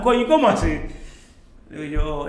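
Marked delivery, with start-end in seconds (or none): 0.0-0.8 much higher, louder startled exclamation; surprised father. Retold or imitated. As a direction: blurt it out in disbelief. (papá sorprendido, exclamación alta y aguda)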